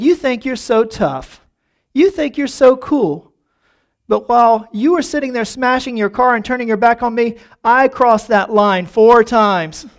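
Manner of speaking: acted-out gloating comeback; mock defiant retort. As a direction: crow it back at the bully, stretching the punchline. Bill retorts to the biker.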